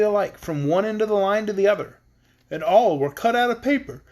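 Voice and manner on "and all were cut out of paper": reading through a yawn; words stretched by a yawn. Real, not acted. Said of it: "I don't know why I'm yawning".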